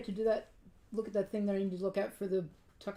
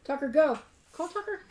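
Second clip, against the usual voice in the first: loud call to the dog; 3 semitones higher, 6 dB louder than usual. Real, not acted. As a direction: shout the dog's name. Calling the dog.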